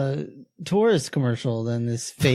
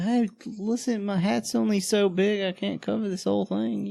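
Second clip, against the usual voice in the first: mock guy voice; 8 semitones higher, 5 dB quieter than usual. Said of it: "He's like".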